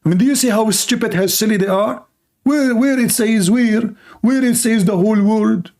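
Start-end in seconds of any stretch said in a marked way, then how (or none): 2.4-5.7 drawn-out mocking question; slow mocking question. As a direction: drag out the first where mockingly. Repeats the question slowly, mocking.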